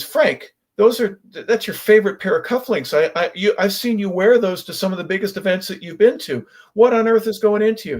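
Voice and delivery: a friend who can't believe what he sees; incredulous buddy. Retold or imitated. Buddy startled by cufflink gift.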